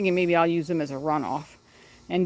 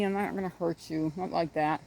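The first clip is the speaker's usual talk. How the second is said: soothing the duck; 7 dB quieter than usual. Real, not acted. Reassuring the scared duck.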